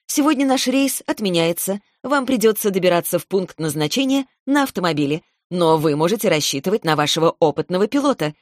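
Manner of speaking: playful pilot cabin announcement; flight attendant. Pretend. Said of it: "громким дикторским голосом".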